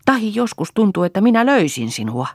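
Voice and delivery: high-pitched, heated outburst; angry threat. A narrator's reading. Mother telling daughter she could hit her, angrily. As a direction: let temper lift the voice sharply.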